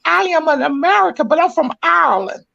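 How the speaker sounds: ordinary talk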